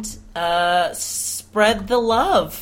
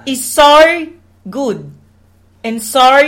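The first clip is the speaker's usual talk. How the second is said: loud, high, drawn-out mock Australian; Australian accent; 6 semitones higher, 5 dB louder, slower than usual. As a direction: ham up a broad Australian accent. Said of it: "I do love the Australian accents".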